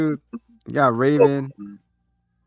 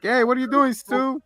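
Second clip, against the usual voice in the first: much higher, indignant cry; high mock outrage; 10 semitones higher than usual. Teammate shot at by his partner, high indignant cry. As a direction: cry out like you've been betrayed. Betrayed character shouting.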